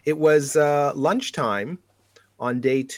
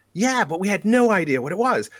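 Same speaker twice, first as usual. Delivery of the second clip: put-on British accent; 7 semitones higher than usual. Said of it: "should I do the British accent".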